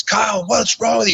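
high-pitched mock coach voice; put-on high voice for a protesting coach; imitating upset coach. Coach follows him, retold quote.

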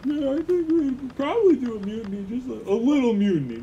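high, airy sailor voice; timid crew chiming in; crew member voice. Acted. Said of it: "rest of the crew".

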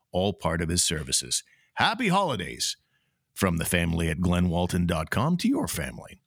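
upbeat radio ad read. Acted. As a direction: sell it like a sponsor spot. Host reads sponsor ads.

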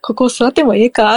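casual Kansai question; Kansai dialect. Shown as a demonstration.

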